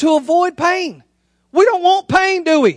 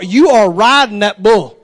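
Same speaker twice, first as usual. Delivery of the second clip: slow, firm order; stern father; 5 semitones lower, 4 dB louder than usual. Retold or imitated. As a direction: lay down the law to your son. Stern father insists to son.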